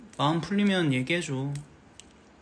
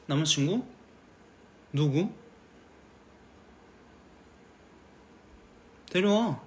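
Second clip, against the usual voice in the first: fake calm dad. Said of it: "초연할 것 같아".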